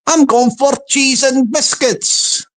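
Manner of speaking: slow, lightly Scottish troll; Scottish accent. Acted. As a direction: draw it out with a touch of Scots. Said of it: "Let's hear him again".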